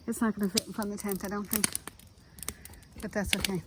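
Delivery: slightly winded after setting up; out of breath. Real, not acted. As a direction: talk while catching your breath. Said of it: "Now I'm out of breath".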